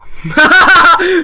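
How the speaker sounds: high, loud real laugh; sudden incredulous laugh; burst of laughter. Real, not acted. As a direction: laugh out in disbelief. Stunned laugh at the answer.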